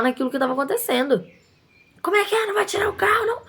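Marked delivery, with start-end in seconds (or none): 2.0-3.4 much higher, exaggerated mocking of the attendant's cheek; rude challenge. Shop owner re-enacting the attendant's rude challenge, hammed-up. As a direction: repeat his challenge with even more scorn. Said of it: "Falando desse jeito, gente".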